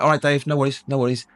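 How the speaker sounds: reassuring paramedic. Retold or imitated. Ambulance crew to a confused patient, reassuring. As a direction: lightly imitate a breezy paramedic soothing someone.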